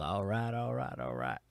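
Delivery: low, relaxed catchphrase impression; Matthew McConaughey. Host greeting the chat as an actor, Matthew McConaughey impression. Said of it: "Make you into Matthew McConaughey".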